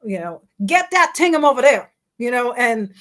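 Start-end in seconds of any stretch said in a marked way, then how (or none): 0.7-1.9 higher Bahamian accent, a little louder. Shown as a demonstration. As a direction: Bahamian "Get that Tingham", still too fast. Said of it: "I'm still doing it too fast".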